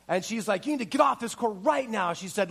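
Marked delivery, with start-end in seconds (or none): 0.7-2.1 kinda mad. Retold or imitated. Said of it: "she was kinda mad".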